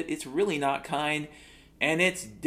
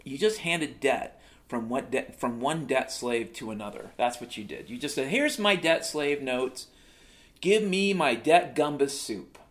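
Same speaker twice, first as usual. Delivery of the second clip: mock lecture. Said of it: "it's like".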